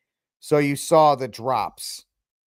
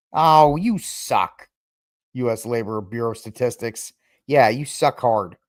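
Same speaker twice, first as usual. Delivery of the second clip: annoyed; 3 semitones lower than usual. Real, not acted. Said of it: "Sorry, I'm just not dealing with this".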